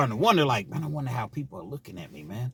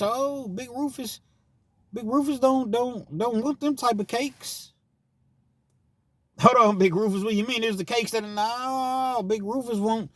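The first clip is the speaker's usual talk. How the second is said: much higher, sing-song put-on voice; Big Rufus voice; 13 semitones higher than usual. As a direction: sweet-talk like a smooth predator.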